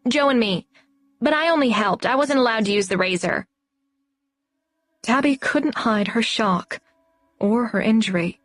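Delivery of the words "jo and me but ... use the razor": a hint of a matter-of-fact child; young girl Ursa. A narrator's reading. Ursa tells Tabby about the beard, lightly voiced earnest child.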